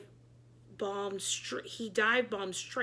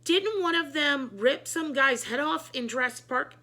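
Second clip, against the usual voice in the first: higher, louder worried question; alarmed question; 5 semitones higher, 5 dB louder than usual. A narrator's reading. Board president asking in alarm, higher and louder. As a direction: ask in rising panic.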